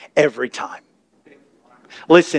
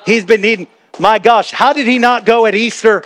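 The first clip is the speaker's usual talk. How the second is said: gossiping churchgoer; 4 semitones higher than usual. Retold or imitated. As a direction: build into nosy disbelief. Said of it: "Some people think that".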